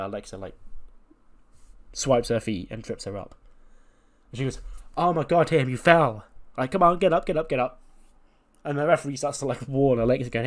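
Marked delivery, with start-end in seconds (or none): 5.0-7.8 raised, louder exclamation; pitched-up plea to a fallen friend; mock-urgent urging. Alexa yells at fallen Tatum to rise, urgent.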